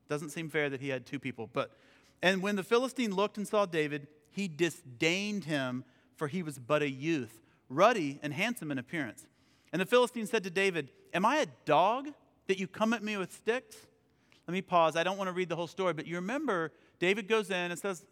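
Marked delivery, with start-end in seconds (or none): 2.2-13.9 emphatic reading from the Bible; scripture reading. Acted. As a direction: read it out with weight on the key words. Reads scripture aloud.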